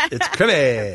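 "crimmy" said with a short i, like krim-ee; mock "crimmy". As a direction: imitate the ad's "crimmy", slow. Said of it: "something that's crimmy".

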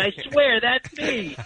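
high, pleading imitation of the extra; acted insistent boast. Guest voices a film extra convincing his kids, insistent and excited. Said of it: "that guy right now is going".

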